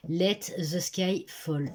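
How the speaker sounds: slow, self-mocking English accent on the title. Shown as a demonstration. A booktuber jokingly shows off her English accent on the book title. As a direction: say the title carefully in a French speaker's best English accent. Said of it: "avec mon magnifique accent anglais".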